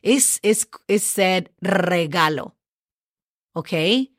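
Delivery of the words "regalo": regalo with a long trilled R; Spanish regalo, R strongly trilled; rolled R. Shown as a demonstration. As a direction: roll the R at the start of regalo. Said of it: "Are you enjoying those R's".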